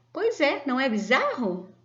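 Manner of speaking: lively, high-pitched comic-strip reply; acted excitement. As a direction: share the oddity with playful enthusiasm. (empolgação encenada, em tom agudo)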